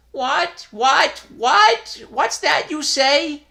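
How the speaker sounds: high, loud, rising startled stammer; startled old man. A narrator's reading. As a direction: sputter in disbelief.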